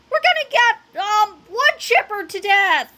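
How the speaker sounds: high, loud wail of terror; panicked cry. A narrator's reading. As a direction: stumble through it in cartoon panic. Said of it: "cried Fluffy".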